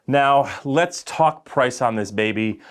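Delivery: slow salesy pitch; used car salesman. Pretend. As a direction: sell it like a car dealer. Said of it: "I just sounded like a used car salesman".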